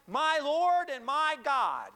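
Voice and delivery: loud, high, drawn-out declaration; slow, ringing preacher's cry; sudden exclaimed confession. Retold or imitated. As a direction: proclaim it as a sudden realization. Retells Thomas's sudden recognition.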